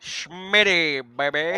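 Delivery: playful mock British accent. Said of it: "That's my British accent for you".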